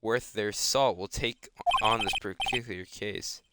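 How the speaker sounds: lightly voiced formal, regretful boss; apologetic senior lawyer. Senior lawyer turning down the case, mildly apologetic. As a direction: decline with a touch of measured regret.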